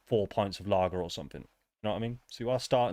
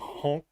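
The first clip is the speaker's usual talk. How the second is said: silly clown; 5 semitones higher than usual. Acted. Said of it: "The sound effects are brilliant".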